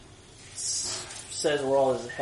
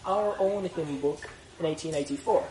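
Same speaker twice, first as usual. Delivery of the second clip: put-on Irish accent. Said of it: "you were like doing an Irish accent".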